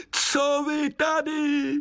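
high, slow, odd woodland voice; forest spirit. Acted. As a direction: ask like a curious sprite. Hejkal speaks.

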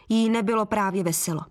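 ordinary delivery

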